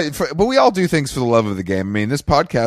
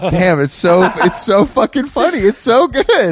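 giggling through high-pitched words; barely holding back laughter; trying not to laugh; 9 semitones higher than usual. Real, not acted. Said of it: "I can't even keep a straight face".

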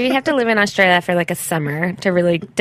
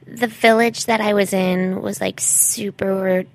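put-on slow, drawn-out gap-year girl voice; traveling white girl; 3 dB quieter, much slower than usual. Traveling white girl recounting growth in Chile, self-absorbed. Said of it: "is this a traveling white girl?".

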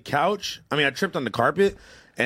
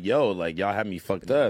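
mock tough complaint; 7 semitones lower than usual. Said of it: "let them know, like".

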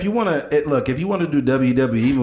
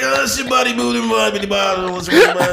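Macho Man voice; 9 semitones higher, 4 dB louder than usual. Pretend. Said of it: "speaking in tongues? He's like".

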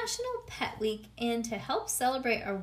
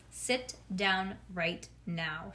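scary teacher; 4 semitones lower, much slower than usual. Acted. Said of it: "she said, real scary".

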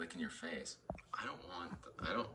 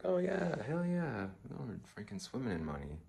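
much higher, louder gleeful whoop; gleeful cheer; 7 semitones higher, 3 dB louder than usual. Retold or imitated. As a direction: celebrate the refund like a jackpot. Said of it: "I was like".

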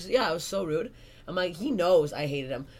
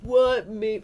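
loud, high startled "What?"; mock surprise; 4 semitones higher, 9 dB louder than usual. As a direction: act stunned. Bully sees her comedy.

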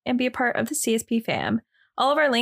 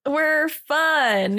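upbeat; 4 semitones higher than usual. Shown as a demonstration. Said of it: "say it with more gumption".

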